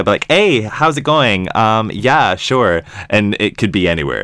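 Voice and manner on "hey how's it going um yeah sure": generic American accent. Shown as a demonstration. British host mocking a placeless American accent. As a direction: play a bland all-purpose American. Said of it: "Do an American accent".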